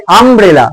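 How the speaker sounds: আমব্রেলা with a clear opening আ; pronunciation demo. Shown as a demonstration. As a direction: sound out আমব্রেলা as আম-ব্রেলা. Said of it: "উচ্চারণে কিরকম হচ্ছে".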